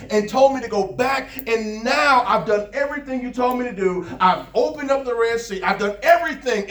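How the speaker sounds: mildly indignant, animated complaint; angry Moses. Acted. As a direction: protest to God like an overburdened leader. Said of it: "and I'm angry".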